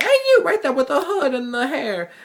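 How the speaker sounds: high, loud hall-monitor yell across the hall; imitated yell. Hall monitor yelling at a student to stop, high loud call. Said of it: "she starts yelling at me like".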